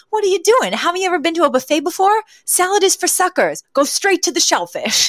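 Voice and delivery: high, fast, pushy buffet expert; imitating Fran in a high, pushy voice; Fran impression. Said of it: "Fran sees Maggie eating salad and she goes".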